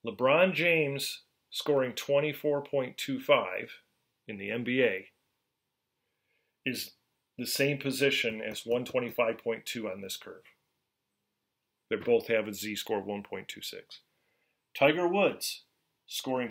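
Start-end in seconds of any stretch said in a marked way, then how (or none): 0.1-10.4 slow, deliberate explanation; slowly. Shown as a demonstration. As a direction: spell it out slowly for the class. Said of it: "let me say this slowly".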